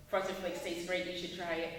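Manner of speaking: low, level, uninterested commercial read; boring monotone. Shown as a demonstration. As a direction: read the ad on one low note.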